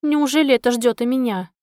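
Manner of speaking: ordinary delivery, nothing marked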